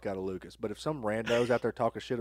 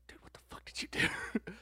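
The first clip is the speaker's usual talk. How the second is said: imitated conspiratorial dad whisper; 5 dB quieter than usual. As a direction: whisper it so nobody outside hears. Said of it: "he was, like, whispering".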